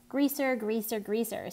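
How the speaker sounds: lightly sing-songed taunt. A narrator's reading. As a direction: chant it like a schoolyard tease. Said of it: "Steve sing-songed".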